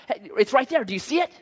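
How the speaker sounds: put-on a touch of excited little boy; toddler son. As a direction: lightly play a two-year-old pointing something out. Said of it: "This is how he talks to me now".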